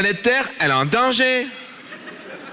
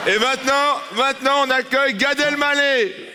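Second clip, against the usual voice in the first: raised host introduction; announcer voice; 6 semitones higher than usual. Pretend. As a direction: announce the next act like a gala host. Mock gala host announcement.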